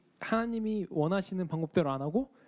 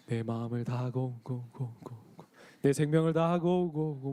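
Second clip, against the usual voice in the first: a hint of a slow, booming mountain spirit; mountain spirit imitation; 2 semitones lower, slower than usual. Speaker mocks a stern mountain god command, lightly. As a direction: intone like a lightly voiced old mountain god. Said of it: "산신령 문화처럼".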